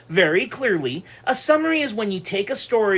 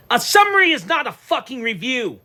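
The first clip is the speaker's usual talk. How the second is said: louder and higher, hammering the point; said loud and clear; 5 semitones higher, 5 dB louder than usual. Real, not acted. Ranting to his viewers, loud and emphatic. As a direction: slam it down so nobody misses it. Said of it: "I'm gonna say it clearly".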